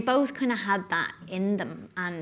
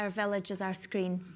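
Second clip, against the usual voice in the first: Scottish accent; 4 dB quieter than usual. Shown as a demonstration. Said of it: "In, say, Scottish accent".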